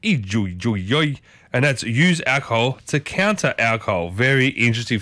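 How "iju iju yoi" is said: lower, tentative Chinese syllables; attempted Chinese accent. Shown as a demonstration. Telling viewers what they say in China, attempted Chinese accent. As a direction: try it haltingly in a rough Chinese accent. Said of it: "get better at these accents".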